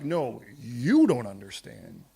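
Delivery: God's reply. Retold or imitated. God correcting the complaining believer, deep and slow. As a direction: answer like God, unhurried and low. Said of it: "And God's like".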